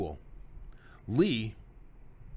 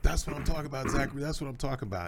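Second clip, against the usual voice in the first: excited cheering; 6 semitones higher, faster than usual. Retold or imitated. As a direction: cheer your son on from the sideline. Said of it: "and I was like".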